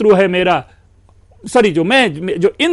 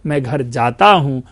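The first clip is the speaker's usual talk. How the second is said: हूं lower and falling; stress on हूं; 5 semitones lower than usual. Shown as a demonstration. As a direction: land the weight on हूं. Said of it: "ये कुछ और होता है". (हूं पर ज़ोर, गिरता सुर)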